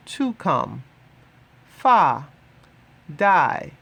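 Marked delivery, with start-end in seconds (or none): 1.7-2.3 Fa said short and firm, a little louder; clear Swahili model word. Shown as a demonstration. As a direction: model "Fa" crisply for learners. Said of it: "teacher models Swahili word".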